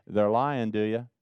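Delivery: gently broken hard truth; gentle. Real, not acted. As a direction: drop to a gentle, tactful tone. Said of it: "I try to say it gently".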